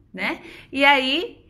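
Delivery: ordinary talk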